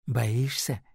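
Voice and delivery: usual speaking voice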